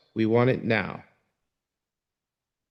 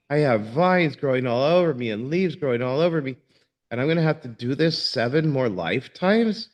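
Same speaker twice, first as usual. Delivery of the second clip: higher-pitched, mock-outraged yogi; flipping out; 3 semitones higher than usual. Yogi protesting seven more lifetimes to the sage, flipping out. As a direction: act out an indignant rant, pitched up. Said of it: "flips out".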